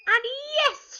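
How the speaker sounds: high, loud group-style cheer; joyful shout. A narrator's reading. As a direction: shout agreement with a long rise. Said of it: "shouted the pirates".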